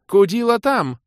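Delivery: very high, loud direction; urgent call. A narrator's reading. Sending the demoness away, high and urgent.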